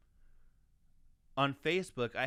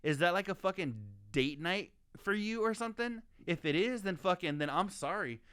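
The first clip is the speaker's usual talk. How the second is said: higher, exasperated retort; mock indignant rant; 3 semitones higher than usual. Sneering back at the guy who called Denny's a flex. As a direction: scoff at him like he's clueless.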